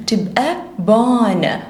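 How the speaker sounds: stretched out, sound by sound; slow phonics blend. Shown as a demonstration. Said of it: "لساني في ال alveolar ridge يبقى ب".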